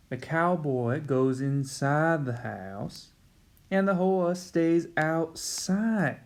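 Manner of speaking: a light, slow southern drawl, only lightly put on; teacher hamming up a Southern cowboy accent. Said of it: "my southern accent is starting to fail me".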